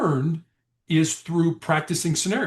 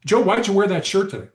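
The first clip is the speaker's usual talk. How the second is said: accusing question; 5 semitones higher, 3 dB louder than usual. Shown as a demonstration. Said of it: "why questions sound accusatory".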